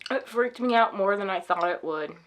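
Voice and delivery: barely above a whisper, shaken; shaken and low. Real, not acted. After the robbery, telling viewers she feels weak, shaken and hushed. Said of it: "I feel weak".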